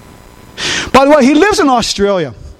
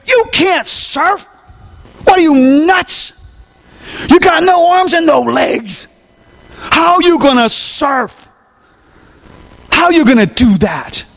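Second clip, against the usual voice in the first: mock doubter; 5 semitones higher than usual. Preacher voicing doubting girl.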